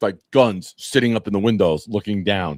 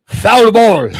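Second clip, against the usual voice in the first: much higher, louder mock call of "Foul ball"; old man's quip; 12 semitones higher, 10 dB louder than usual. Old roulette dealer calling out after the ball hits him, mock loud. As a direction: bark it like a deadpan umpire. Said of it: "he looks at me and he goes".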